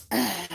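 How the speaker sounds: imitated kids' annoyed teeth suck. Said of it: "Why you sucking your teeth?".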